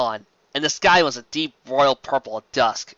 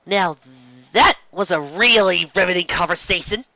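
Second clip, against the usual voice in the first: mock bright, slightly louder; falsely cheery; 4 semitones higher, 4 dB louder than usual. A narrator's reading. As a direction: fake cheer covering boredom. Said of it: "in a falsely cheery voice".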